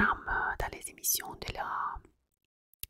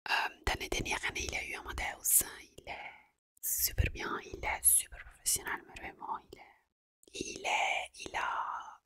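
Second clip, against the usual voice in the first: Italian accent in French. Real, not acted. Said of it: "désolée, mon français".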